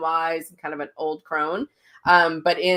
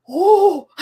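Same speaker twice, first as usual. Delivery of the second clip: excited squeal; 13 semitones higher, 9 dB louder than usual. Retold or imitated. Friends gushing over new experience.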